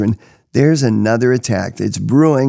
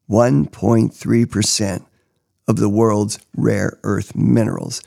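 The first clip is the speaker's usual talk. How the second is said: slow reveal; 2 semitones lower than usual. Acted. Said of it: "wait for it".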